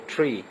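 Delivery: ٹری with a long "ee" vowel. Shown as a demonstration. Teacher showing the long E sound to learners, long-vowel ٹری. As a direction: say ٹری clearly, holding the "ee". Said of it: "long ای sound".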